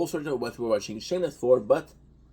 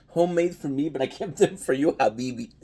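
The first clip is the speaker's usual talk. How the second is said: kind gentle laugh; 2 semitones higher, 4 dB louder than usual. Real, not acted. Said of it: "I'm laughing because it's so cute".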